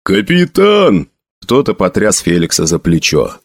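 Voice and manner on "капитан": high, drawn-out urgent call. A narrator's reading. Soldier shakes Felix awake, calling urgently. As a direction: call out to rouse him. Soldier waking captain to an attack.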